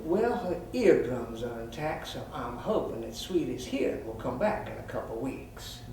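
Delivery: a touch of measured professional reassurance; calm. Retold or imitated. Vet returns to reassure the cat's owner, all calm. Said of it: "I came back in all calm".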